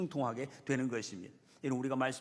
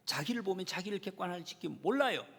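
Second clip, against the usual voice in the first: ordinary delivery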